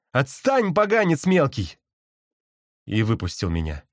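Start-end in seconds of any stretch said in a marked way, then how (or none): 0.1-1.8 mild shout. A narrator's reading. Nick fends off the bird, crying out. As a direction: cry out to shoo a pest away. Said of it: "Ник вдруг замахал руками, закричал".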